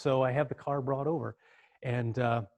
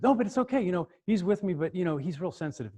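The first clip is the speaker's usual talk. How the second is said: high, earnest reassurance, retold; pleading daughter; 6 semitones higher than usual. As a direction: imitate a daughter soothing her dad.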